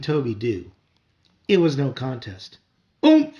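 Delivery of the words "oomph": startled shout, loud and high; a kid shouting in surprise. A narrator's reading. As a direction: yelp as you get landed on. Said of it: "Pete shouted".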